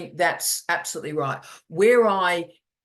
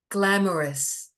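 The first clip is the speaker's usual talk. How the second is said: slow, gushing, dreamy praise; gushing soap star; slower than usual. Retold or imitated. Mocking AI reviews, slow gushing soap-opera praise. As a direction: drawl it like a soap opera diva. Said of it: "someone from a soap opera".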